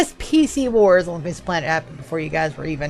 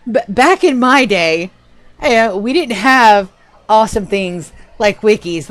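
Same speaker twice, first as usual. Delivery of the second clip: mock old-timer reminiscing; 2 semitones higher, 6 dB louder than usual. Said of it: "all of the things in my voice".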